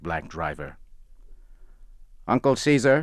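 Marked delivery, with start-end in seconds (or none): 2.3-3.0 calling out. Acted. Doctor calls out to driver.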